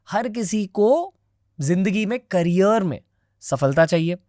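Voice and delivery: punchy, deliberate host intro with pauses between phrases; podcast intro read. Acted. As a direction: present the episode, punching key names and phrases. Scripted episode introduction to viewers.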